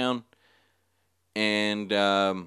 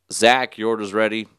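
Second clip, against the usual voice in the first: cashier's raised order call; 7 dB louder than usual. Retold or imitated. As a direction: call out to the waiting customers, louder. Acts cashier calling out orders.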